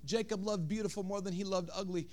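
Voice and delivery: very soft, low and intimate; hushed sermon. Real, not acted. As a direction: draw them in quietly.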